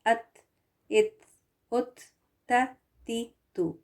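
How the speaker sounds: अत, इत, उत, त, ती, तु said thin with lips spread as in a smile. Shown as a demonstration. Teacher shows students the light t with spread lips. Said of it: "इसको फैलाकर".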